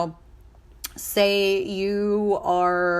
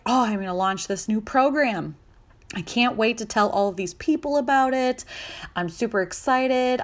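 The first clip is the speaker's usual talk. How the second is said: higher, bubbly eager planning; eager launch talk; 4 semitones higher than usual. Retold or imitated. Founder bragging about a new program, bubbly.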